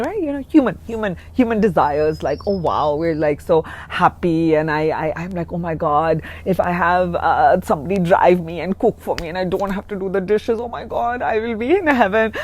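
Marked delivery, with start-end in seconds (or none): 2.5-12.3 mock giddy wishing, building in pitch; silly excitement. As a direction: playfully act out giddy human desires. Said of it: "I was being silly and talking".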